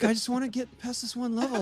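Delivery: high, laughing whiny wife voice; a pleading wife, voiced high with a laugh; imitating wife. Wife explaining she's stuck on one level, high and whiny. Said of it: "She's like".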